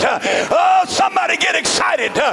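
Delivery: shouted, rhythmic revival sermon; driving pulpit cadence, rising at the end; full-force preaching. Real, not acted. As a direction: urge the congregation on in hard bursts.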